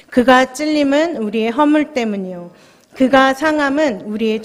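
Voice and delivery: measured, solemn Bible reading aloud; scripture reading. Acted. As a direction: read the verses steadily to the congregation. Reads Isaiah to the congregation. (성도들에게 성경 말씀을 엄숙하게 낭독)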